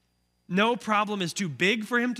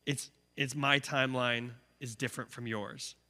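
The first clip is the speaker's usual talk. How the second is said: respectfully; 6 semitones lower, 7 dB quieter than usual. Retold or imitated.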